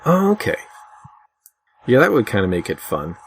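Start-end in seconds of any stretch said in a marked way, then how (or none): none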